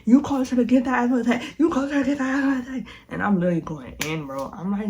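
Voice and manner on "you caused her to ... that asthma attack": angry. Retold or imitated. Blaming the fighting boyfriend.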